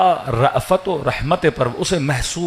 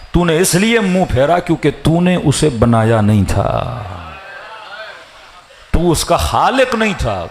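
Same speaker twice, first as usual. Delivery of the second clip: stern divine rebuke. Acted. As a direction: rebuke Moses from above. God rebukes Moses. (سخت اور بلند آواز میں ڈانٹ)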